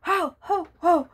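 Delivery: jolly Santa ho ho ho, loud; Santa laugh. Shown as a demonstration. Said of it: "Can you say".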